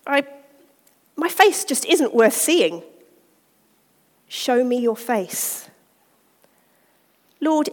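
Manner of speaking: reading a poem of Lord and man, voices traded; dramatic reading. Acted. Speaker reading a prayer dialogue to the women's group. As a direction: read it aloud with gentle drama.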